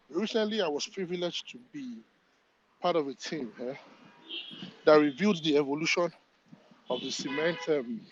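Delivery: panting while talking; breathless, working as he speaks; out of breath. Real, not acted. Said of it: "Sorry, I'm panting because I'm working".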